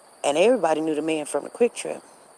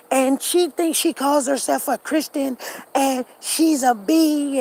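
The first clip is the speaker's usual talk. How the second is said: high, loud mock crying; imitated bawling; 7 semitones higher, 4 dB louder than usual. Husband raging on air about his cheating wife, mock bawling. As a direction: wail it out like a hammed-up jilted husband. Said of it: "He's just bawling and crying".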